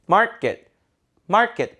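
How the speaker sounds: 마켓 as English "MAR-kkit"; weakened second vowel. Shown as a demonstration. Teacher modelling for repetition, 마켓 with weak second syllable. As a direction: stress the start of 마켓, tense short ending. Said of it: "이렇게 읽어보세요".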